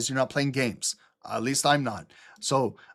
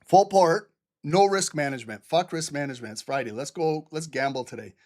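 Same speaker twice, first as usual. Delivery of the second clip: sarcastic hype. Pretend. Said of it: "give them some stupid advice".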